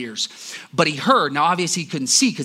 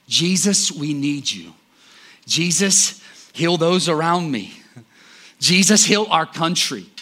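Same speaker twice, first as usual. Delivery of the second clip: louder prayerful cry to Jesus; 3 semitones higher, 5 dB louder than usual. Shown as a demonstration. Preacher shows the church how to cry out, louder. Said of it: "cry out for him".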